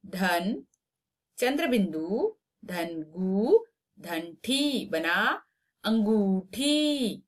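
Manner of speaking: very slow syllable by syllable; slow spelling out. Shown as a demonstration. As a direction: build the word piece by piece. (धीरे-धीरे अक्षर जोड़ते हुए)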